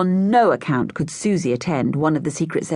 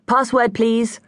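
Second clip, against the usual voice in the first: calling out; 6 semitones higher, slower than usual. A narrator's reading. Boy calling to knocker at the shed door, calling out. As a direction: call it out through the door. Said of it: "called out at once".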